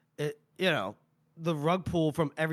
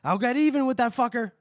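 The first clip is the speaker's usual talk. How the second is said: angry cursing; 9 semitones higher, 4 dB louder than usual. Acted. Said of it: "he's just like".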